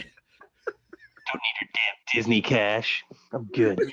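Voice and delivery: whispered mock disdain; hushed, breathy jab.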